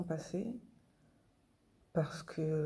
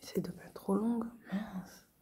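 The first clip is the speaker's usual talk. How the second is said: whispering; 3 semitones higher than usual. Real, not acted. Whispered self-reminder about length.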